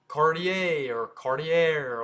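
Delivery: Cartier as car-tee-ay, then car-tee-air; two versions of Cartier, ay then air ending; alternative pronunciations. Shown as a demonstration. Teacher offers common versions, alternative pronunciations. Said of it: "or however you say it".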